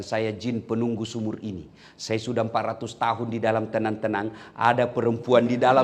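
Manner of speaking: a weary spirit speaking; lightly voiced old jinn; jinn of the well. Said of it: "Dia bilang".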